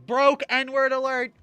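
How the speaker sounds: loud, high, slow mock siren call; mock alert. Calling out his own lack of money, mock alert. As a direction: sound the alarm for a joke. Mock alarm at being broke.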